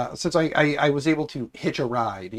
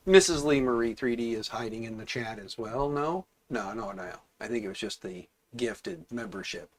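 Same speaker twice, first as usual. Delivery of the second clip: hoarse, stuffed-up voice; raspy from a cold; congested raspy voice; 2 semitones lower, 6 dB quieter than usual. Real, not acted. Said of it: "As you guys can hear, I'm very, uh, congested today".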